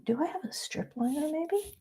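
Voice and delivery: whispering. Real, not acted. Whispers to herself while drawing.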